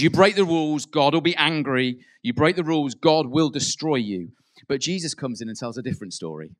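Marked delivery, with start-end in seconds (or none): 0.0-4.3 threatening warning. Retold or imitated. Mocking the Pharisees' threat.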